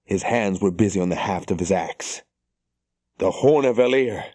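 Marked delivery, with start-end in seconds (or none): 3.2-4.2 in awe. A narrator's reading. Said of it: "There was sheer awe in Ingtar's voice".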